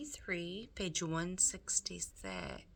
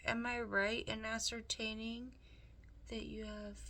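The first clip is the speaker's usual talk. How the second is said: higher, smooth scheming rat, coaxing; Roscoe the rat; 4 semitones higher than usual. Acted. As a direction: purr it like a sly, charming villain. Roscoe flatters Meg.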